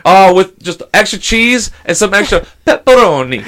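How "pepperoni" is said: put-on sudden Italian accent on the one word; hammed-up Italian pronunciation of a topping; mock Italian accent. Diner ordering a thin crust pizza, mock Italian accent. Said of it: "say it like that".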